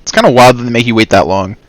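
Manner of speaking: talking through hiccups; hiccuping. Real, not acted. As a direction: hiccups breaking the words. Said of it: "Sorry, I'm hiccuping".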